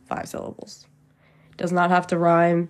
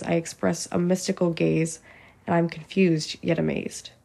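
measured, rhythmic poetry reading; poem recitation. Acted. Poet shares own full-length poem with listeners, measured recitation. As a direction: recite in short phrases, landing each rhyme.

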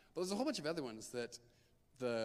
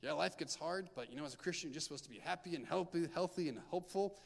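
breezy, sing-song voice for cheap comfort; mocking glib advice; 4 semitones higher than usual. Youth leader mocking verses that sound glib, breezy and sing-song. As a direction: brush off the pain with a bright, easy lilt. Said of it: "just say".

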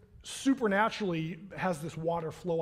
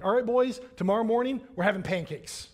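upbeat announcement; 4 dB louder than usual. Retold or imitated. Dad telling his boys about tomorrow's breakfast, upbeat announcement. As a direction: announce a treat with a lift.

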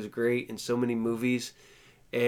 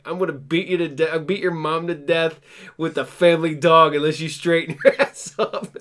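mock threat; 4 semitones higher, 4 dB louder than usual. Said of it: "threaten people and be like".

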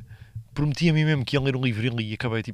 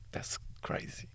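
awed whisper; 16 dB quieter, much slower than usual. Real, not acted. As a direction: hush it, amazed. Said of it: "whispered aside".

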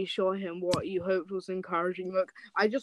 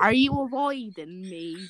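dropping fake accent; 2 semitones higher, 5 dB louder than usual. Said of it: "his voice keeps changing".

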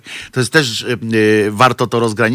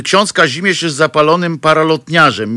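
normal talking voice

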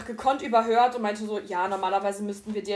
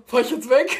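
laughing panic; 3 semitones higher, 10 dB louder than usual. Retold or imitated. Panicked first thought after crash.

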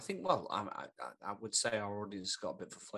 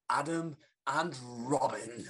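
whispered; 4 semitones higher, 6 dB louder, much slower than usual. Acted. Host announcing team on stage.

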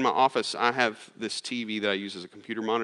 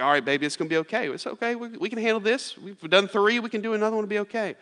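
retold reassurance; 9 semitones higher than usual. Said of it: "I corrected it".

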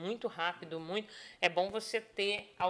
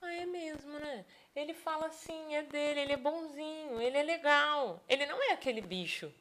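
realizing employee; 6 semitones higher than usual. Retold or imitated. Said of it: "o funcionário olha e fala assim".

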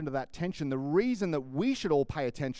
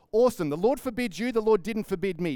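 eager; 6 semitones higher, 6 dB louder than usual. Retold or imitated. Eager fugitive begging for the dagger.

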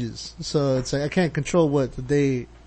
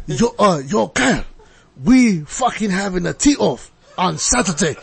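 mock Asian accent. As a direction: read it in a hammed-up Asian accent. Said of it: "Asian accent while you're reading that".

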